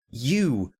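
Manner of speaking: starstruck. Retold or imitated. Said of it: "and I'm like".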